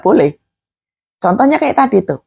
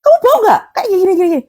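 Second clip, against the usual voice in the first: imitated high-pitched, excited questioning; mock anxious chatter, pitched well up; fussing over smell; 9 semitones higher, much faster than usual. Preacher mimicking family discussing a strange smell, fussy alarm. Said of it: "Nggak usah dibahas".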